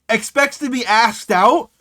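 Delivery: drawn-out scandalised echo; incredulous repeat. Acted. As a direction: quote it back as if it's absurd. Repeats the line in disbelief.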